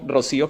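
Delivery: "Rocío" stressed on the í, ro-SÍ-o. Shown as a demonstration. Host showing where the tilde falls, stress on the í of "Rocío". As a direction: say "Rocío" with the accent on the middle syllable. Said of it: "le marquen la tilde como debe ser en la I".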